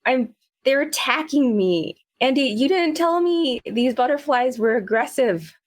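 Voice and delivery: high-pitched, put-on distressed complaint; panicked Willow. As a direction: play a big man yelping under butterfly attack. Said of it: "He's like".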